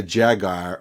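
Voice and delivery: "Jaguar" fumbled as JAG-eye; botched attempt. Co-host attempting the new pronunciation, "Jaguar" fumbled as JAG-eye. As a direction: try "Jaguar" but land on JAG-eye. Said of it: "whatever you said".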